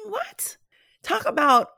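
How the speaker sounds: high whispered disbelief; breathless, high whispered what; incredulous whisper. Real, not acted. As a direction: whisper it like you can't believe it. Disbelief at her own workload.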